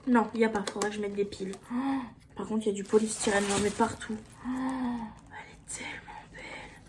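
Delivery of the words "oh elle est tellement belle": slow awed whisper. Real, not acted. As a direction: hush it out in wonder. Whispered admiration.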